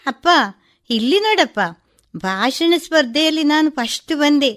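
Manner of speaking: high, loud and thrilled, calling her father; bursting with joy at winning first prize; joyful. Acted. Daughter tells her father she won first prize, joyful and high. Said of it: "ಸಂತೋಷದಿಂದ ಕುಣಿಯುತ್ತಾ ಬಂದ".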